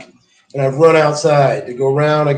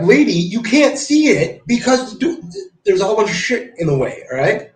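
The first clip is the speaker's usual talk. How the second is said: higher, faster, fed-up mock rant; exasperated retort; 7 semitones higher than usual. Telling the lady the fire is blocked, exasperated and higher. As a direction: replay your frustration at her. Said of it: "I'm like".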